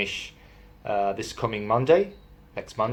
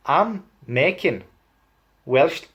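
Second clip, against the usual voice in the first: higher, slow Welsh lilt; Welsh accent; 4 semitones higher than usual. Shown as a demonstration. Wrapping up the demo, still in a Welsh accent. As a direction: lean into the Welsh tune. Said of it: "Welsh accent".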